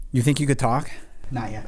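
soft, pained from the heat; mouth burning from spicy food. Real, not acted. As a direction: speak through a burning mouth. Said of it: "It hurts more when you breathe".

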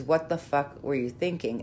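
mild mock exasperation; lightly exasperated, no real anger; blunt harsh tone. Shown as a demonstration. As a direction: say it bluntly, half-joking. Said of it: "different tone".

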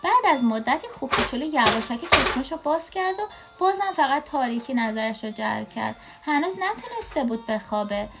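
lively read-aloud with swooping intonation; story reading to a child. A narrator's reading.

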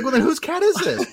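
high, loud, disbelieving question; baffled surprise. Retold or imitated. Told the cat isn't hers, he asks in high disbelief. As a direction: ask in stunned confusion. Realising it's the wrong cat.

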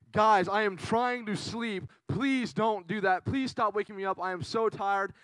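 slow, exasperated mock plea; mildly angry, imitated. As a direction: lightly act out a fed-up, tired complaint. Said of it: "And she's angry".

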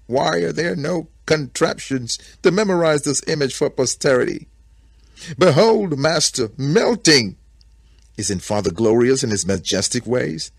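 high, loud rapturous exclamation; awestruck bear. A narrator's reading. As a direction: marvel aloud, building to a ringing cry.

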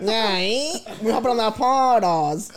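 drawn-out mock Toronto accent. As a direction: imitate a Toronto accent, slow and playful. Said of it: "talking in a Toronto accent".

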